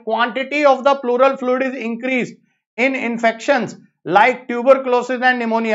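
very slow, word by word, for students to note; slow dictation. Shown as a demonstration. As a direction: read the statement out at dictation speed. Teacher dictates exam statement slowly.

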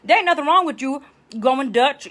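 ordinary talk

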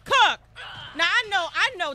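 Cook shouted high and loud; sharp call to a teammate. Real, not acted. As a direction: bark the name across the map. Calling teammate in game.

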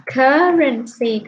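"currency" drawn out slowly, syllable by syllable; model pronunciation. Shown as a demonstration. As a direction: sound out "currency" slowly for a student. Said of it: "Còn câu D là". (đọc mẫu "currency" thật chậm)

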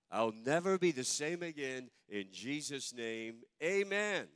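bold unison declaration of faith; congregational recitation. Real, not acted. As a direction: proclaim it aloud together like a creed. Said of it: "Let's say it together".

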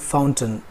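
"fountain" as FOWN-tun; short, reduced last syllable on "fountain"; modelled pronunciation. Shown as a demonstration. Teacher modelling the sentence, "fountain" ending in "tun". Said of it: "इसे फाउंटेन बोलिए".

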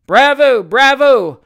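loud, high cheer; high-pitched shouted bravo; cried out. A narrator's reading. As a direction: cheer it out like an audience. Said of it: "cried the ornamental painter's journeyman's party".

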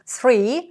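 tongue between the teeth on Three; English th sound. Shown as a demonstration. Teacher showing students the English th in Three. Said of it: "щоб у вас звучав англійський звук «с»".

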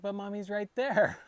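put-on high, loud little-girl voice; young daughter. Young daughter correcting dad while watching mommy's video, imitated high child voice. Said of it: "she's like".

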